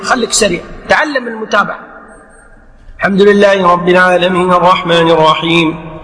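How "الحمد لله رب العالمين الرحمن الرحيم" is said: unbroken recitation on a level tone; imam reciting continuously. Shown as a demonstration. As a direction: run the verses together as the imam. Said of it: "فرضنا أن الإمام سريع".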